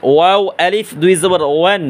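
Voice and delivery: ওয়ান with both lips rounded; rounded ওয়াও. Shown as a demonstration. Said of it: "দুই ঠোঁট গুল করিয়া পড়বেন".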